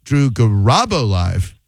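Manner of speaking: slow "Garabo" with a big swoop on RA; exaggerated emphasis. Shown as a demonstration. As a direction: stretch and lift the middle of "Garabo", ga-RAAA-bo. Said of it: "I'm gonna say it another".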